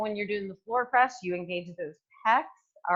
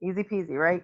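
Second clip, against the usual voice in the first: winded, catching breath between words; puffing after the set; 4 dB louder than usual. Real, not acted. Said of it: "That's why I'm out of breath".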